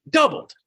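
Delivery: Doubled hit high and loud; emphatic doubled. Real, not acted. Stressing how the inventory grew, Doubled high and loud. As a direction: slam the word Doubled.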